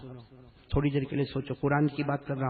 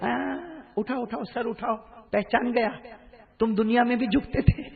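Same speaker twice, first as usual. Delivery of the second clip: loving voice; 6 semitones higher than usual. Acted. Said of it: "اللہ کتنے پیار سے کہے گا".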